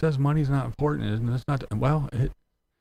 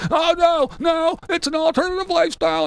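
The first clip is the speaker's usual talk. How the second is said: much higher, louder sneering voice; mock dismissive; 5 dB louder than usual. Mocking hypocrites who deny homelessness, sneering high voice. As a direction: brush it off snootily. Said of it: "if anybody else says".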